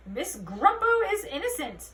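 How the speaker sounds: shrill, loud protest cry; protesting parent. A narrator's reading. A goblin parent shouting innocence at Holly. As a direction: heckle the officer.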